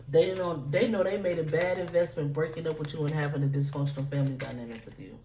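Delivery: stumbling over repeated words; stuttering. Real, not acted. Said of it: "Y'all, I'm stuttering".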